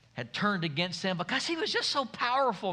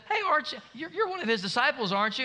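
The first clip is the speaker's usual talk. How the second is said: put-on little girl; 6 semitones higher, much faster than usual. Little girl accusing Peter.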